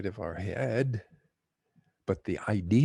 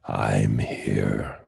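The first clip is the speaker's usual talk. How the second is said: much lower, godlike voice from above; booming heavenly voice; 13 semitones lower, 5 dB louder than usual. Retold or imitated. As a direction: answer like God from the clouds. Voice from the sky answers.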